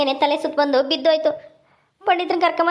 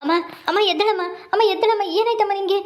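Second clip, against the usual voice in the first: wailing grief; 5 semitones higher than usual. Acted. Son wails over his dead mother, grieving. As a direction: wail for her to get up.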